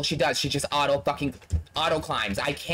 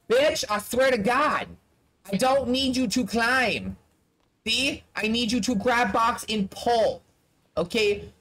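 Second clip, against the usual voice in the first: frustrated scolding; 4 semitones higher than usual. Real, not acted. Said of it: "I'm getting really frustrated".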